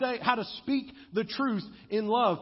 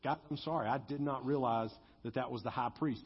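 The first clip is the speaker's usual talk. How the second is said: soft, lower, contrite apology; Paul's hushed sorry to the court; humble apology; 7 semitones lower, 7 dB quieter, faster than usual. Retold or imitated. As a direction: back down quietly and sincerely. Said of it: "He said".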